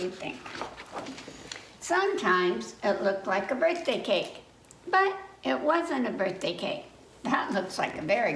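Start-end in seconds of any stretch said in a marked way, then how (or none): 1.8-6.8 put-on reading to children. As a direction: read it like story time for little kids. Reading a picture book aloud.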